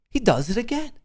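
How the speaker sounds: high hyped commentator call; mock announcer. Streamer to viewers about himself, mock commentator call. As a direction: boast like a sportscaster calling a great play.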